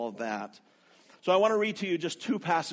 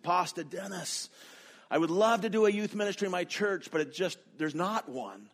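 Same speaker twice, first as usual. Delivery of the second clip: lightly imitated Ethiopian accent, higher pitched; 4 semitones higher than usual. Ethiopian student appealing to his pastor teacher, in an imitated Ethiopian accent. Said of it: "in his perfect Ethiopian accent".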